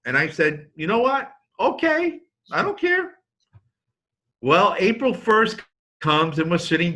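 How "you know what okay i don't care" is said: very high-pitched, singsong giving up; mock breezy surrender. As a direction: wash your hands of it in a high voice. Dad gives up, acted retelling.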